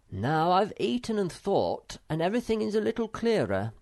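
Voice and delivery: a small troll taking charge of the pears; Moomin Troll voice. A narrator's reading.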